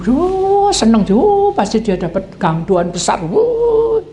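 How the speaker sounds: slow, high gleeful wuh of greed; mock excited wuh. Man picturing his big deal, high mock excitement. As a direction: gloat over a big windfall.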